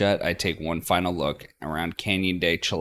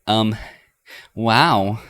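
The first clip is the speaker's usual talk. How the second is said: stunned; 5 semitones higher, 8 dB louder than usual. Acted. Stunned after Linda leaves.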